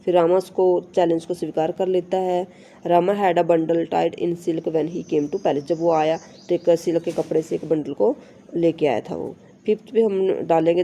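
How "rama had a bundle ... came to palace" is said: slow, careful reading of the English text; slow textbook reading. Shown as a demonstration. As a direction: read each word out slowly for the class. Reads textbook sentence aloud. (धीमी, साफ़ पाठ्य-पुस्तक पढ़ाई)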